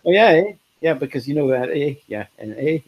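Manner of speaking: lightly mocking Canadian chatter, full of "eh"; a light send-up of Canadian "eh"; Canadian eh talk. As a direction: imitate friends saying "eh" every few words. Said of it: "how much they say".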